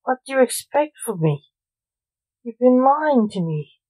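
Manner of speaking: mock scream at the liar. Father screams that his son lied to him. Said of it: "screamed Blake".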